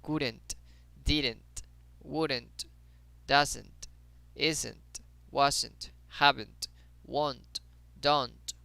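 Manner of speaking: each word from "Couldn't" to "don't" ends on an audible T; final T sounded. Shown as a demonstration. Teacher drills essential T sound, crisp word endings. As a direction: release the final T in "Couldn't", "didn't" through "don't". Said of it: "recuerden hacer el sonido de la T".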